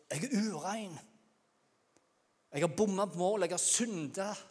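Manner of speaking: high cry building to a shout; cried-out confession. Acted. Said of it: "så måtte vi ha ropt".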